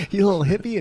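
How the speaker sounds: high, strained play-threat, half laughing; mock furious threat. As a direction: threaten him like a joke gone too far. Mock threat, retold anger.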